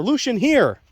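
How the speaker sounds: high, loud recall command; imitated yell. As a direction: mimic a handler yelling for the dog. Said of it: "he yells".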